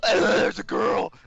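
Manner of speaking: slow, high, loud cheer; cheery welcome. Real, not acted. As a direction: cheer her on like a pet owner. Cheering a new viewer.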